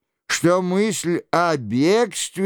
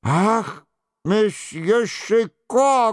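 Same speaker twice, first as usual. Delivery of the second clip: high-pitched, drawn-out exclamation; high, slow wailing call; loud cry; 6 semitones higher, slower than usual. A narrator's reading. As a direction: cry out the name, stretched and high. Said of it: "громко вскричал Горанфло".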